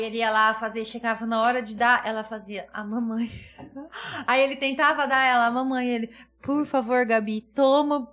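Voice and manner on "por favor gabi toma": pedido arrastado de pai implorando; súplica imitada. Retold or imitated. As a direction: implore devagar, esticando as palavras. Pai suplica à filha que aceite. (súplica arrastada, encenada)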